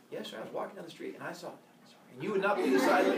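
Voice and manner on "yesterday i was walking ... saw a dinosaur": hurried mock. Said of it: "just say".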